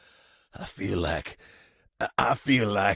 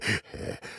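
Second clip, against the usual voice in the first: soft, breath-only laugh; a quiet, embarrassed little chuckle; bashful chuckle; 3 semitones higher, 6 dB quieter than usual. Acted. Fumbling a compliment about hands, bashful soft chuckle.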